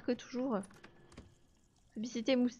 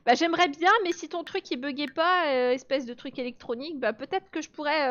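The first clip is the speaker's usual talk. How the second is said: louder, higher, exasperated talk-back; annoyed retort; 3 semitones higher, 4 dB louder than usual. Real, not acted. Streamer arguing back at the buggy game, exasperated. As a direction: snap back at the broken game.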